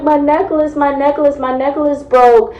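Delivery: a touch of mock crying; tearful drunk whine. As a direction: plead it in a put-on whimper. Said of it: "I was crying".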